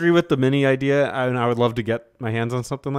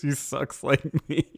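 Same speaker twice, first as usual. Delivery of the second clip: deep gravelly voice; 3 semitones higher, 4 dB quieter than usual. Retold or imitated. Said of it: "how Axel said, in, like, a, a deep, gravelly voice".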